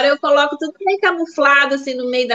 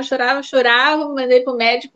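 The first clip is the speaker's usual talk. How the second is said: normal talking voice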